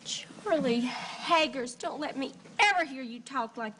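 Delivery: slow, drawn-out stern naming; stern warning. Acted. Wife scolding her husband for talking himself down, slow and stern. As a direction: call him out by his full name, slowly.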